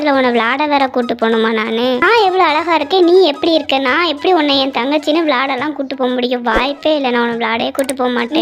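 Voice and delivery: lightly voiced haughty big sister, indignant; a touch of sisterly contempt; scornful elder sister. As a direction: look down on your little sister, mildly disdainful.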